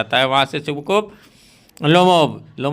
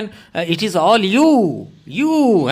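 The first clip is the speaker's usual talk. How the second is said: accusing; 4 semitones higher, much slower than usual. Acted. Father blaming daughter in quarrel.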